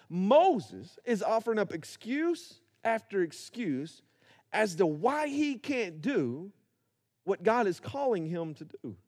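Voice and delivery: slow, deliberate, each phrase spaced out. Shown as a demonstration. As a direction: spell it out slowly for the people in the back. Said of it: "say it a little bit slower".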